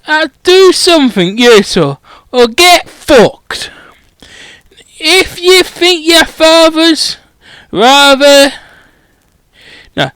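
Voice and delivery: a lightly voiced, rough giant telling him off; a hint of a gruff giant swearing at a student; growling Hagrid. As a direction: scold him with a mild growl. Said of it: "Hagrid growled".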